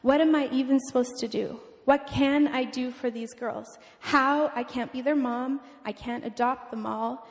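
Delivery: mildly frustrated plea to God; a touch of exasperated desperation; retold crying out. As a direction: re-enact helpless, angry questioning with restraint. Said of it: "I was crying out to him".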